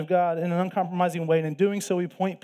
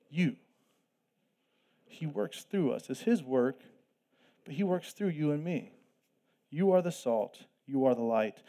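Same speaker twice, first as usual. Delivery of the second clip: hushed intensity; 3 semitones lower, 5 dB quieter than usual. Real, not acted. Slows, softens for emphasis.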